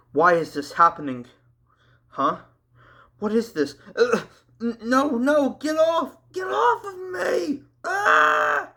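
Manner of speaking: rising to a high terrified shout; screaming in fear. A narrator's reading. Andrew dragged off by spiders, terrified high screams. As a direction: panic as something grabs you. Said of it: "As Andrew screamed".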